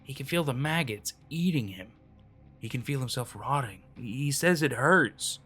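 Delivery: a frightened man confiding a horror; terrified, hushed confession. Acted. Terrified man describing dead brother.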